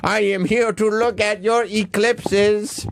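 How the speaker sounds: slow, high robot voice. Pretend. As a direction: announce yourself like a slow robot. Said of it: "I am Eclipso the robot".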